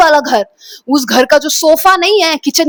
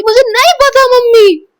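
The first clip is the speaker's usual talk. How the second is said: high, louder pleading cry; desperate denial; 11 semitones higher, 5 dB louder than usual. Retold or imitated. Daughter yanking her mother's hand, high pleading cry. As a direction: fling the words out as she jerks away. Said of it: "हाथ लेके ऐसे झटका के बोला".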